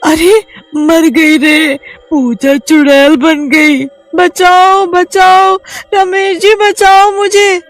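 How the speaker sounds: very high, loud, slow screaming; panicked wife calling her husband; terrified cries for help. Acted. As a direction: scream for rescue.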